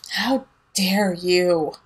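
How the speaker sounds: slow, breathy mock outrage; hushed mock offense; mock indignant whisper. Mock reply from reader.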